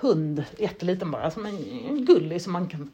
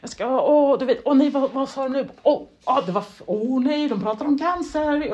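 anxious inner voice; 5 semitones higher than usual. Retold or imitated. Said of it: "hela tiden tänka på så".

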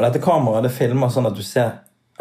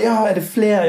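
surprised; 10 semitones higher than usual. Retold or imitated. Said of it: "Så bare".

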